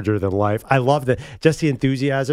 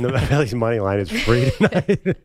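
laughing. Real, not acted. Quoting the heckler's line.

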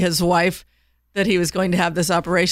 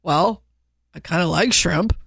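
sheepish husband. Retold or imitated. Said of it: "And the guy goes".

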